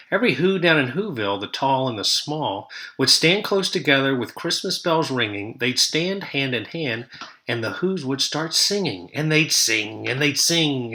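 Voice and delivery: lively singsong read-aloud rhythm; storybook narration. A narrator's reading. Teacher reading the Grinch to her class, lively storytelling. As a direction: read it like a picture book to kids.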